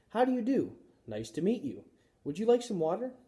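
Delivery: high, polite beginner's English; careful learner. A narrator's reading. Mother practising English phrases, polite and high. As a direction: speak each phrase carefully.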